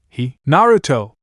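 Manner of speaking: calling out his name; calling shout. Acted. Anna running to Naruto, calling out. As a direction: call to him as she runs. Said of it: "I shouted".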